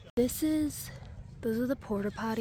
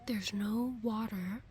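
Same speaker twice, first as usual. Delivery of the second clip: hushed whisper; 4 dB quieter than usual. Real, not acted. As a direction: whisper it softly. Hushed campground vlog.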